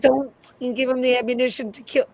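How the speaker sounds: a fan blurting out frustration at a TV character; exasperated outburst. Retold or imitated.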